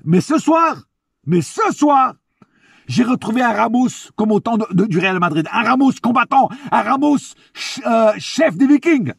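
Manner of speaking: hyped-up high praise; escalating comedy rant. Real, not acted. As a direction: cheer him on like a fan. Excited praise of Ramos.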